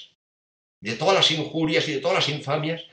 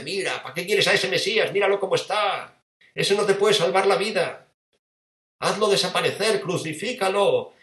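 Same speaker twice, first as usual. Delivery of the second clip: tempting demon; 6 semitones higher than usual. Acted.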